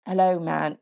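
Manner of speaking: a rusty attempt at a British accent; lightly put-on British accent. Podcaster imitating a British rapper, light British accent. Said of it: "since I've done my British accent".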